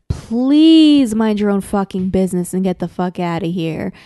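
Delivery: slow, drawn-out hammed-up plea; mock begging. Kid begs the slayer to back off, mock pleading. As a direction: open on a long, wailed "please". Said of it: "this kid begs him".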